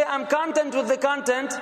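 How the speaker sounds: "content" both times stressed on the first syllable, CON-tent; wrong stress. Shown as a demonstration. Teacher showing the wrong stress on "content". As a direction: model the mistake, CON-tent CON-tent. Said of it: "doesn't click".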